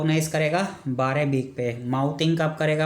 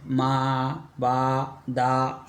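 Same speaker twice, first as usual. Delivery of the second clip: put-on baby babble; much slower than usual. Shown as a demonstration. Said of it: "मोनोसिलेबी".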